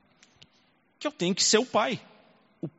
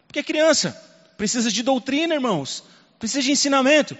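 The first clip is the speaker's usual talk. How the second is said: raised pulpit voice; preaching emphasis; 7 semitones higher than usual. Real, not acted. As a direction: drive the point home to the church. Preaching point at full force.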